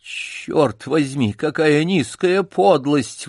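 медленно, с возмущением выше; Джек возмущённо восклицает; возглас. Acted. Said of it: "воскликнул Джек". (возмущённо восклицая)

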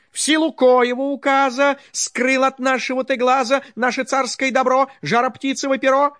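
loud, high, furious royal shout; a tsar bellowing in rage at his servant; angry tsar shouting. Acted. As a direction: roar at him like an outraged tsar. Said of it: "закричал к нему со гневом".

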